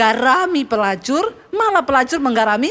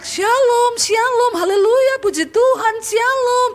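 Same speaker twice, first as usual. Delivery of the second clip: parrot squawk; 11 semitones higher, slower than usual. Acted. Preacher voicing a church parrot's squawking greeting. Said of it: "Burung beoknya teriak".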